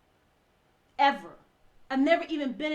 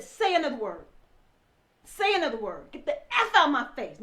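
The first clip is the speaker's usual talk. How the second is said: louder, firm warning repeated; angry threat; 3 semitones higher, 7 dB louder than usual. Retold or imitated. Husband warning his wife to shut up and leave, louder and angry. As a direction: dare her to say one more word.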